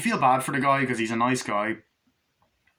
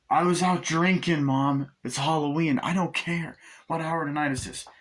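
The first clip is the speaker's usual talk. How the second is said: defiant answer; 6 semitones higher than usual. Retold or imitated. Son answers mother back.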